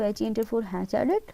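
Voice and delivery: slow, letter by letter dictation; spelled-out shortcut. Shown as a demonstration. Teacher dictating a shortcut to students, slow and spelled out. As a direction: spell the command out slowly for students. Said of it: "dictating a keyboard shortcut".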